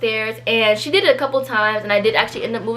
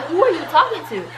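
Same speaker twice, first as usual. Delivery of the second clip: words broken by laughter; laughing; 6 semitones higher than usual. Retold or imitated. To the friend who snapped at her, giggling in disbelief. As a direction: laugh through the question in disbelief.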